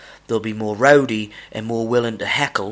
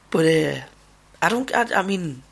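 heated rant; 4 semitones higher than usual. Real, not acted. Heated rant about talkers.

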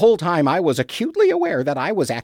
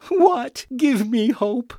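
much higher, sudden hopeful what; eager surprise; 5 semitones higher, slower than usual. Real, not acted. Egbert to his analyst, startled and hopeful. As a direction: jump at a glimmer of hope. Asks twice, second eagerly.

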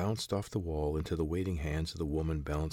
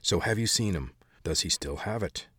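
snapping; 4 dB louder than usual. Acted. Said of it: "the man's voice snapped at her".

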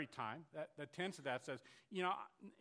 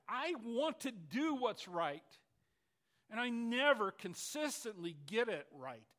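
louder, higher, slow frustrated plea; frustrated lament; 6 semitones higher, 7 dB louder than usual. Acted. Preacher voicing Paul's frustration, slow loud lament. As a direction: pour out the frustration, drawn out.

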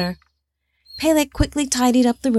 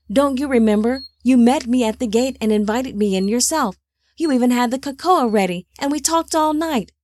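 put-on lightly raised young man's voice; insistent young man; 4 semitones higher than usual. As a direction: press him to remember, higher and urgent. Voicing young Peleg, insistent.

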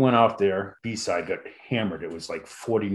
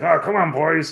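coaxing host; 7 semitones higher, 6 dB louder than usual. Retold or imitated. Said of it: "and he's like".

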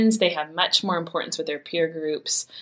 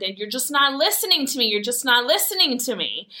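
higher-pitched, insistent retort without real volume; mock yelling; 5 semitones higher than usual. Mom retells arguing with her teenage son, mock yelling. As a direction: re-enact a heated protest, pitched up but not loud. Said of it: "I got loud and yelled".

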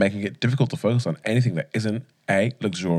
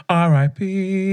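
slow spelled-out; 7 semitones higher, much slower than usual. Acted. Mock mourning spelled out.

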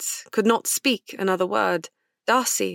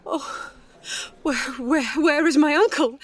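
rising high, urgent calls for her uncle; anxious cry; 8 semitones higher than usual. A narrator's reading. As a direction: call out, frantic and high. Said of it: "cried Elizabeth".

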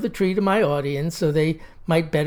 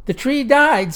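higher, hammed-up sobbing child; mock sob; 6 semitones higher, 3 dB louder than usual. Girl sobs to the storyteller, hammed-up higher sob. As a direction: play a little girl sobbing. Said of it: "sobbed Elizabeth Lee".

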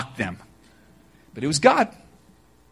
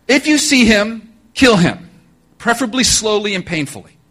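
barked kill order; 5 semitones higher, 4 dB louder than usual. Retold or imitated. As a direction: bark it like a ruthless king.

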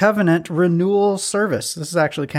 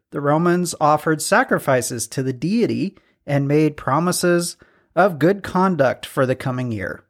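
ordinary talk

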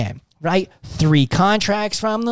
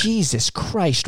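slow amazed; 4 dB quieter, much slower than usual. Retold or imitated. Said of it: "And I was like".

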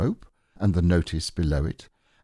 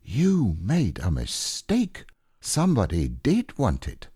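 solemnly; 3 semitones higher than usual. Acted. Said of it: "said Pooh solemnly".

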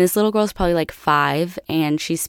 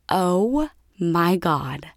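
slow, drawn-out mock disbelief; stunned; much slower than usual. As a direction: retell being floored, stretching each word. Retold stunned reaction to the reveal.

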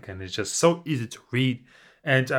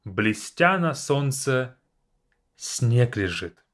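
poem recital. Acted. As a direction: recite it like verse. Reads Pushkin poem aloud.

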